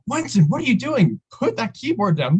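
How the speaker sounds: shrill-pitched retold scolding; imitating the coordinator freaking out. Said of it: "she just goes crazy".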